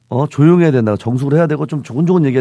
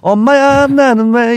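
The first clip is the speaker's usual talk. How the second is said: higher, louder mock dismay; dismayed exclamation; 8 semitones higher, 6 dB louder, much slower than usual. Friend showing another 엄마야, higher and louder mock dismay. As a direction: cry it out like something went wrong. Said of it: "이런 거 있잖아".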